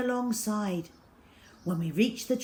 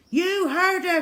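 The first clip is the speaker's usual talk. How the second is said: high, loud, rousing call; rally the crew; commanding cry; 11 semitones higher, 8 dB louder than usual. A narrator's reading. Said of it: "cried the chief".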